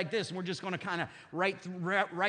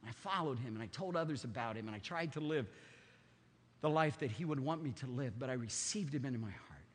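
sincere testimony; 4 semitones lower, 4 dB quieter than usual. Pretend. His own answer to God.

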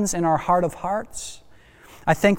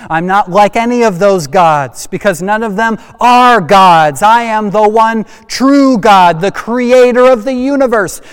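booming declaration; 4 semitones higher, 6 dB louder than usual. Acted. God declaring himself the true God.

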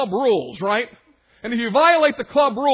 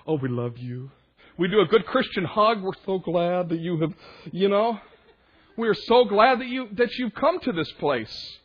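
sugary mock welcome; 3 semitones lower than usual. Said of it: "guess what the group does".

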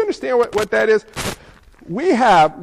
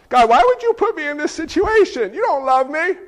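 complaining prayer; 6 semitones higher, 3 dB louder than usual. Retold or imitated.

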